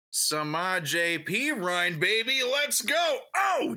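loud, drawn-out cheer; excited. Real, not acted. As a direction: hype him up loudly. Cheering a player.

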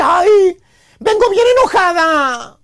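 slow, put-upon wife complaining; lightly voiced fed-up wife, drawn out; frustrated wife. Frustrated wife arriving home, slow fed-up complaint. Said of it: "la esposa frustrada".

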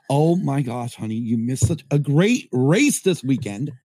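slow, gloating brag to a spouse; bragging. Retold or imitated. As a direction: rub it in, savouring each word. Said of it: "brag to me and go".

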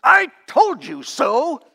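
mock triumphant boast; gloating taunt. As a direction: crow over the win like a smug victor. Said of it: "that comes across as saying".

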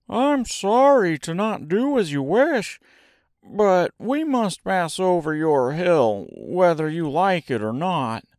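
high, polite but determined Scarecrow; Scarecrow's voice. Acted. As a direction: stand firm in a high-pitched character voice.

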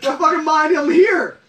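half laughing, half crying out; laughing yell through the pain; pained laughing shout. Real, not acted. Eating extreme hot sauce.

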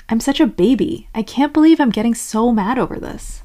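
mildly exasperated self-reproach; frustrated. Acted. Berating yourself for getting mad, mild frustration. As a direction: scold yourself with acted frustration. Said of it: "getting frustrated with it would sound like".

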